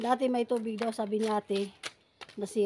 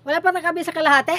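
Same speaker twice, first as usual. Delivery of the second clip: out of breath; 5 semitones higher, 9 dB louder, much faster than usual. Real, not acted. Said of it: "Hiningal na ako".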